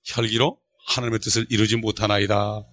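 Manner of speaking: low, soft, solemn scripture quoting; model meek wife. Shown as a demonstration. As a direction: answer the husband quietly and piously. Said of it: "이렇게 얘기해야지". (낮고 경건한 아내 말투)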